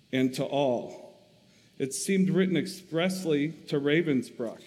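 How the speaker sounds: steady, expressive reading aloud to a congregation; story reading. A narrator's reading. Preacher reading Corrie ten Boom's memoir to the church, expressive narration.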